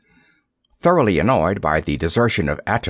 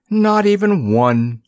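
slow, higher, firm solemn reassurance; solemn assurance; 10 semitones higher, 4 dB louder, slower than usual. Acted. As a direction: assure him gravely, drawing it out. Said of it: "Nickaboo assured him solemnly".

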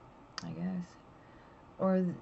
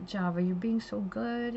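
higher, gentle praise to a pet; sweet talk; 4 semitones higher than usual. Retold or imitated. Owner sweet-talking Java while holding her, gentle praise. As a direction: sweetly praise the lizard in your hands. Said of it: "talking sweet to her".

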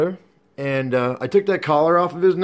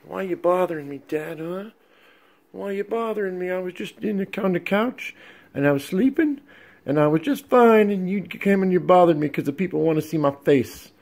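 lightly raised, whiny puppy complaint; pitched up, put-upon pet whine; grumpy dog voice; 5 semitones higher than usual. Retold or imitated. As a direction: voice the sleepy dog grumbling at dad. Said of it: "He's like".

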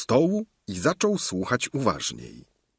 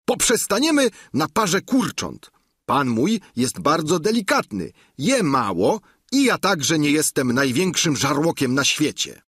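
higher, louder squire's voice; a plain-spoken squire, higher and louder; Sancho's voice; 7 semitones higher, 3 dB louder than usual. Acted. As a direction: Sancho voiced high and loud. Sancho answering the innkeeper.

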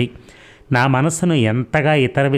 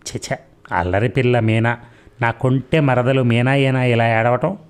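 affectionate. Acted. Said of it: "అనురాగపూరితంగా, ఆత్మీయంగా".

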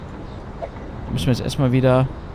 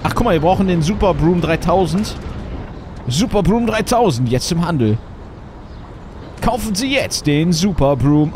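chipper 1950s ad. Acted. Mock product advert.

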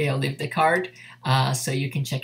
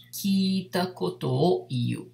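slow model phrase; 4 semitones higher, slower than usual. Shown as a demonstration. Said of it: "aqui fica sendo kita koto o iu".

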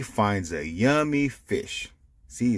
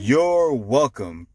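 kind Pete; 4 semitones higher, 5 dB louder, slower than usual. Acted. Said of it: "Pete says".

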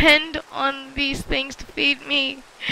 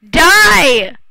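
battle shout; 2 semitones higher, 12 dB louder than usual. Real, not acted. Attacking a mob in game.

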